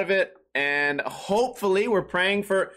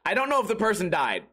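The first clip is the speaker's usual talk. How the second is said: ordinary talk, nothing marked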